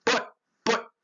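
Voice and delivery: high little sad stammer; mildly sad, halting objection; sad protest. A narrator's reading. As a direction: plead in a high, small protest. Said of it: "said Isaac sadly".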